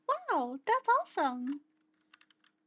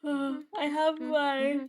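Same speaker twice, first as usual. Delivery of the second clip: words stretched by a yawn; sleepy yawning voice; 4 dB louder than usual. Real, not acted. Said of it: "I'm yawny".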